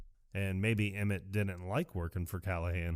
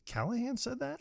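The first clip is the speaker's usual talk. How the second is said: much higher, softer squeak of disbelief; shocked disbelief; 6 dB quieter than usual. Retold or imitated. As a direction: play Emmett's jaw-dropping shock. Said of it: "He's like".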